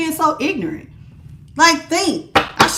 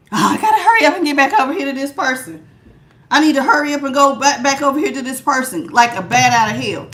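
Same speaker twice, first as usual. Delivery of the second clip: hurried; faster than usual. Acted. Voices the Empress rushing back.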